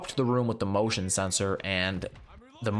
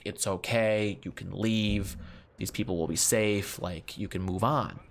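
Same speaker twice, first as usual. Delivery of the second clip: gentle release. Retold or imitated. Husband releasing wife's spirit.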